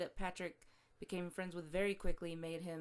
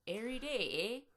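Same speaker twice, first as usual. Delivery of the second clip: put-on Jamaican accent; 2 semitones higher than usual. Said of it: "That's my Jamaican accent".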